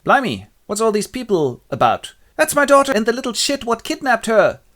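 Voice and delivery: high, loud indignant outburst; blustering Duke. Acted. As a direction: exclaim like an outraged father. Duke discovers sleepers, acted outburst.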